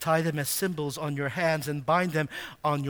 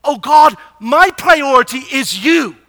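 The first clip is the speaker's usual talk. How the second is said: lifted, louder cry of devotion; fervent prayer; 7 semitones higher, 13 dB louder than usual. Acted. Psalmist crying his devotion to God, louder and higher. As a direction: call it out to God as a vow.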